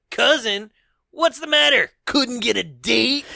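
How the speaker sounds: jeering comeback, drawing out the punchline; Shredder. Retold or imitated. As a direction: throw the answer back as a taunt.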